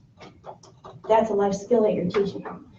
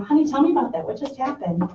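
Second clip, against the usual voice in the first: gentle invitation; 5 semitones higher than usual. Shown as a demonstration. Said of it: "But say".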